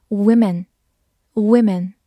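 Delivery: "women" said as "WIM-in", short i first; careful "wimmin" for "women"; plural pronunciation. Shown as a demonstration. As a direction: clearly sound "women" with a "wim" first syllable. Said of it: "注意发音变成".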